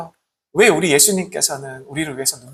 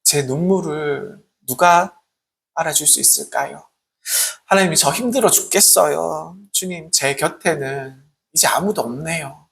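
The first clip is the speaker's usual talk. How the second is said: lonely confession; 3 semitones lower, 4 dB quieter than usual. Retold or imitated. Preacher voices a lonely believer's tearful confession, low and sorrowful. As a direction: pour out a lonely heart to God.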